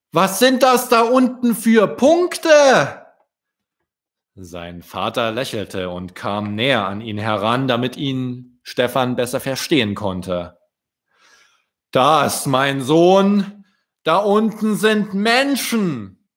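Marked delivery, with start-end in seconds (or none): 0.1-3.1 put-on high, loud curious child's question; a little swan asking his dad, wide-eyed. Stefan's child voice. 11.9-16.3 a hint of a gentle father explaining; dad patiently telling his son; lightly voiced father.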